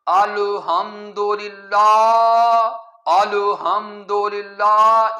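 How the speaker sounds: الحمدللہ very slow, with a bounced echo on the lam and the meem; teacher exaggerating the wrong qalqala in الحمدللہ, very slow; wrong qalqala demo. Shown as a demonstration. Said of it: "لام پر قلقلہ کرنا ٹھیک نہیں".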